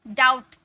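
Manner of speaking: "डाउट" with no stop before the t; silent B. Shown as a demonstration. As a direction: model "डाउट" as dout. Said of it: "डाउट नहीं".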